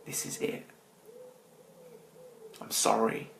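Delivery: retold crying prayer. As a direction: mildly recall sobbing to God. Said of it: "And I said in my cry".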